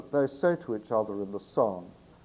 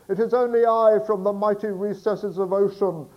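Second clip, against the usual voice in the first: put-on loud, bellowing old sailor; Barnacle Bill voice; 6 semitones higher, 7 dB louder than usual. Sailor outside the door bellows to the girl, loud sailor shout. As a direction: shout it up from the street like a rough seaman. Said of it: "the Barnacle Bill voice for Barnacle Bill".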